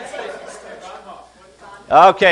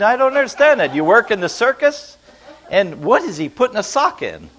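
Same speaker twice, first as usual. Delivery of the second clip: puzzled foreigner; 2 semitones higher than usual. Retold or imitated. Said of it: "somebody who's gonna say".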